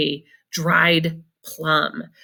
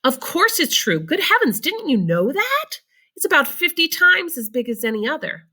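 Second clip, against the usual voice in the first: expressive reading; 9 semitones higher than usual. Shown as a demonstration. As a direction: read it with full expression. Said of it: "Practice that good reading".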